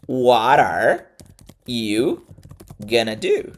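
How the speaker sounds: "What are" run together as "wara", then a pause, "you", pause, "gonna do"; real-life reduced pronunciation. Shown as a demonstration. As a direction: break "What are / you / gonna do" into slow teaching chunks. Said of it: "mostrar uma forma mais real".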